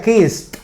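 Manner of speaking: "kissed" as "kist", final t released. Shown as a demonstration. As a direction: close "kissed" on a voiceless t. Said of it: "al final con T".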